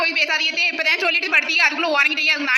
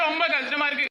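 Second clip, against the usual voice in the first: ரொம்ப கஷ்டமா இருக்கு dropped softer, a pretend sob on ரொம்ப; softer mock sob; 5 dB quieter than usual. Bald friend repeating his hurt, softer in mock sobbing. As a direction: let it sink into a soft mock sob on ரொம்ப. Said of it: "இதுக்கெல்லாம் போய் அழுவாங்களா?".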